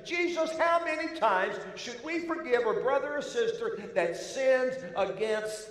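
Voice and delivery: big bold brash. Acted. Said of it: "big and bold and brash".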